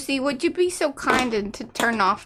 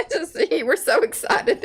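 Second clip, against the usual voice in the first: laughing; 8 semitones higher than usual. Real, not acted. Laughing mock excitement.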